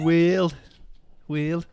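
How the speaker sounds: "World" in an Australian attempt turned Brummy; Brummy-sounding Australian. Shown as a demonstration. Player testing how Australians say "World", slipping into Brummy accent. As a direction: try "World" with a muddled Australian-Brummy vowel. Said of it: "No, that, that, no, that's Brummy".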